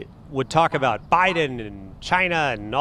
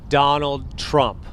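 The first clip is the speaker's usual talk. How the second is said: slow, drawn-out Trump voice; Trump impression; much slower than usual. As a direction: do your Trump voice. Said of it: "This is my fake voice, my Trump voice".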